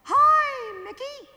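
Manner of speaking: very high squeaky falsetto; Mickey Mouse falsetto. Shown as a demonstration. Yodel teacher demoing the high Mickey Mouse falsetto. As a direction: jump up into a cartoon mouse falsetto. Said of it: "your falsetto or your Mickey Mouse voice".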